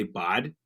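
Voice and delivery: "bod" with an ah vowel; hockey lingo "bod"; bod for bud. Shown as a demonstration. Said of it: "instead of saying bud".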